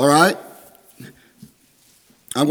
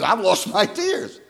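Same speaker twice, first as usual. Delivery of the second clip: slow, mildly tearful retelling; imitated crying; 3 semitones higher, 4 dB quieter, slower than usual. Preacher friend confessing he has lost his tears, imitated crying. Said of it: "And he's crying".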